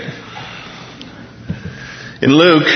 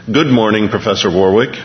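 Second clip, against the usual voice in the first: computer voice. Retold or imitated. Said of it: "said the computerized voice".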